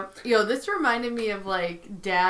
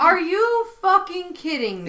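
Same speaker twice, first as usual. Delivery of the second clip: high-pitched indignant disbelief; exasperated; 8 semitones higher than usual. Real, not acted. Fan venting about Jim's pranking, indignant. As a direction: throw it out as an outraged question.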